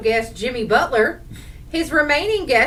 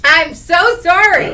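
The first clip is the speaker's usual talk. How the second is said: just swallowed a bug; 8 semitones higher, 11 dB louder than usual. Real, not acted. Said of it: "probably swallowed a bug".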